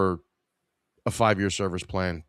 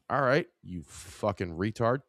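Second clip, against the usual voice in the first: softer muttered insult; 6 dB quieter than usual. Acted. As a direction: mutter it under your breath.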